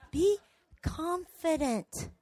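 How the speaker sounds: slow, measured calm command; God. Acted. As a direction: answer calmly, one word at a time. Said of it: "You know what God said?".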